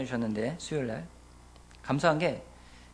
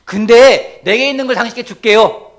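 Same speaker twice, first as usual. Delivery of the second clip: slow, loud and grand proclamation; drawn out like a commanding apostle; solemn apostle; 5 semitones higher, 18 dB louder, slower than usual. Acted. Peter telling the beggar, slow, weighty and loud.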